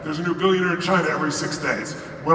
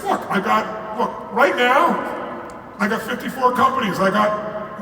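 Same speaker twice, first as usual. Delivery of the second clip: indignant protest; 4 semitones higher than usual. Retold or imitated. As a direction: bristle at the accusation. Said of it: "And so I was like".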